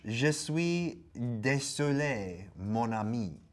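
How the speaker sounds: put-on slow, drawn-out French accent; hammed-up French apology.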